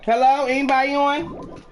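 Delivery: calling out. Real, not acted. Calling out on mic.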